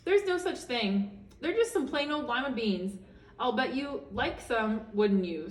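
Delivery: high, gentle granny tut; sweet old woman. Acted. Old woman looks over Camilla's room, high granny voice. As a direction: cluck it like a kindly grandmother. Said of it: "kind woman".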